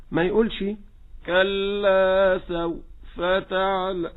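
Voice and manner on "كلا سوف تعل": سوف with the voice cut on the waw, very slow; wrong broken waw. Shown as a demonstration. Teacher imitates the slow reciter's error. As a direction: cut the sound short in سوف. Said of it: "هذا خطأ".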